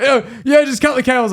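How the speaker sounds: high, urgent panicked insistence; imitated frantic supervisor, pitched high; full stressing. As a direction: order it in a fluster. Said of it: "he's, like, full stressing".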